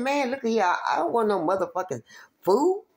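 quick, rising, exasperated; excited protest. Retold or imitated. Retelling to friends, animated refusal of food. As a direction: blurt it out, voice jumping up on food.

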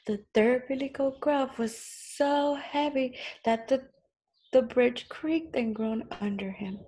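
measured storybook narration; story reading to children. A narrator's reading. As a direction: read it out clearly to small children.

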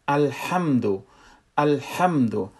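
"الحمدو" with a tight, choked h from mid-throat; constricted throat h. Shown as a demonstration. Teacher demonstrating letter ha, constricted h in "الحمدو". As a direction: squeeze the middle of the throat on the h of "الحمدو".

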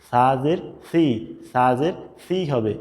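"সি" with air escaping, between s and sh; airy sa. Shown as a demonstration. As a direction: let breath out on "সি". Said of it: "একটা বাতাস বের হবে".

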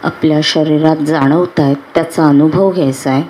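unhurried meditation guide with long pauses; guided meditation. Acted. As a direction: guide them calmly into relaxation, phrase by phrase.

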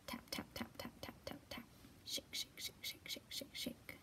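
unvoiced, rhythmic sound words; whispered sound words. Librarian whispering sound words in the story. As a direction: whisper tap tap and shake shake.

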